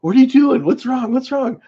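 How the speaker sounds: high, startled aunt asking what's wrong; aunt's alarmed questions. Retold or imitated. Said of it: "And my aunt's like".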